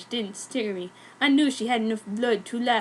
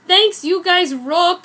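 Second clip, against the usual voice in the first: gushing; 6 semitones higher, 7 dB louder, slower than usual. Shown as a demonstration. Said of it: "author's note read".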